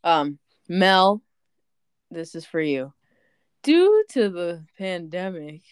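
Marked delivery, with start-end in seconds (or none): 3.6-5.6 lightly imitating sister, slow and drawn out; a hint of the sister, slowed down; sister's catchphrase. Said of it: "that sounded like her".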